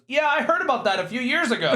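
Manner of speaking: coworker voice. Retold or imitated. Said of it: "someone across from us at work goes".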